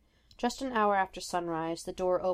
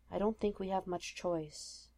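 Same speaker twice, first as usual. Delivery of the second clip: quiet murmur; 6 dB quieter than usual. Acted. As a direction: keep it hushed and close. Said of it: "Steve murmured quietly".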